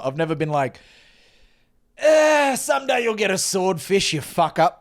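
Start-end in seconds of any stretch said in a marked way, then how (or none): 2.0-4.8 high drawn "Eh", descending into a jab; mock dismissal. Son parodying a dismissive reply to dad's catch, scornful. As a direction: scoff in a put-on, higher voice.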